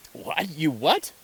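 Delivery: high, rising astonished question; acted open-minded amazement, voice jumping up; amazed disbelief. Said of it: "people react that way".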